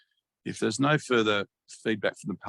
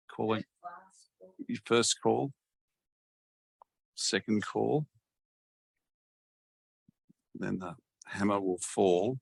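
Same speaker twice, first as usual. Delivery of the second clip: auctioneer voice. Pretend. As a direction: call the lots like a laid-back auctioneer. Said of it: "sound like an auctioneer".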